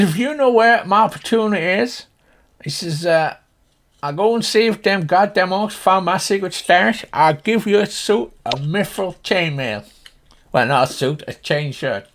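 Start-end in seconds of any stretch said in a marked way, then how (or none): 0.0-2.0 high, loud farmer voice; high-pitched country character; earnest Slim Pickens. Acted. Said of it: "If you imagine Slim Pickens". 4.0-9.9 high, loud farmer voice; high-pitched country character; earnest Slim Pickens. Acted. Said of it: "If you imagine Slim Pickens".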